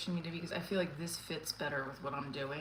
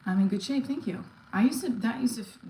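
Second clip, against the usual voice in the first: breathless after exercise; puffing between words; out of breath; 4 semitones higher, 8 dB louder than usual. Real, not acted. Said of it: "Do you see how I'm out of breath".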